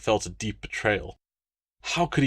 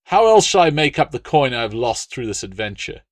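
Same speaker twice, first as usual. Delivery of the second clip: aggrieved complaint; 3 semitones higher, 6 dB louder than usual. Acted. Appius complaining.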